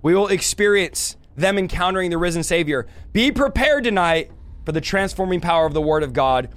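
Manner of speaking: booming epic trailer narrator; announcer voice. Acted. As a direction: sell it like a movie trailer. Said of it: "I need my announcer voice".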